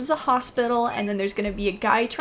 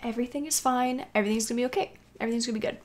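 soft, repetitive mantra to yourself; quietly convincing yourself it's okay; nervous self-reassurance; 6 dB quieter, faster than usual. Real, not acted. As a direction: talk yourself down under your breath. Nervous self-reassurance before horror game.

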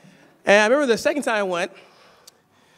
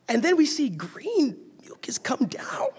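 half-whispered, much softer confession; hushed aside; 4 semitones higher, 3 dB quieter, slower than usual. Real, not acted. Preacher sharing a graphic detail, hushed whisper. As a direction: drop to a near whisper for the gross part.

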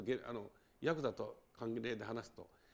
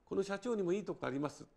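polite, higher-pitched standard Tokyo dialect; 5 semitones higher than usual. Shown as a demonstration. Failed turnabout defending the company president, in polite Tokyo dialect. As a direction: switch to formal praise in Tokyo dialect. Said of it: "これは東京弁だとね".

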